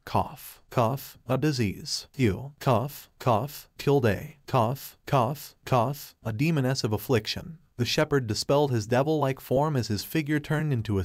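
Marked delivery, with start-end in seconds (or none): 0.1-7.6 regretful, coughing. Acted. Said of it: "regretfully said".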